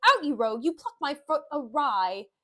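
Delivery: mild theatrical outburst; angry rebuke. Acted. Petruchio to servant pulling off his boot, scolding. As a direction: snap at a clumsy servant, loudly.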